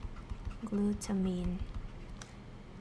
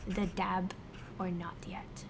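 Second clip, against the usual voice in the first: whispering; 3 semitones lower, 5 dB quieter than usual. Real, not acted. Unvoiced aside.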